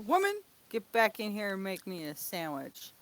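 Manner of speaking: gruff macho demand; bossy husband voice. Acted. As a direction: order her around like a caveman husband. Mock sexist husband demand.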